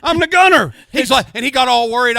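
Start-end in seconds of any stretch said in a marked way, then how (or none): 0.0-0.7 high, loud boast through laughter; laughing boast. Retold or imitated. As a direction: crow it while laughing. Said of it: "I said, I said".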